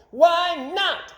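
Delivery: very high, loud crowd shout; all agree at once. A narrator's reading. All the people agreeing together, loud and high. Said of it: "said all the people".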